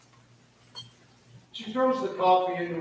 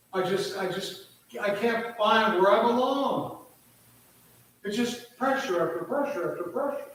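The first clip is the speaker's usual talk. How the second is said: distraught daughter. Retold or imitated. Daughter unloading her troubles on mother, despairing. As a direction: pour out her misery to her mother. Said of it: "she's just beside herself".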